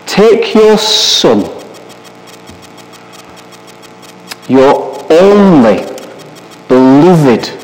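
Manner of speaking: slow, heavily paused Bible reading; solemn scripture reading. A narrator's reading. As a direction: read God's command out slowly, phrase by phrase. Reads God's command from scripture.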